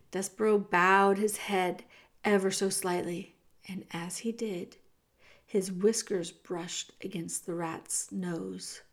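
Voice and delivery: ordinary delivery, nothing marked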